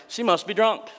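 high mock accusation, a priest scoffing. Priest Eli scoffing at the praying woman, mock sneer. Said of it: "he's like".

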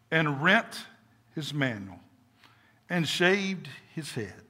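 measured, solemn reading with pauses; slow reading, hushed phrase endings; scripture reading. Shown as a demonstration. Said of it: "read it a little slower".

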